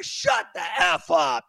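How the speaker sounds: loud, high, slowed shout; angry shout. Real, not acted. Host cutting off the mocked woman, angry shout. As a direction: snap the line to shut her up. Cuts off his own impression.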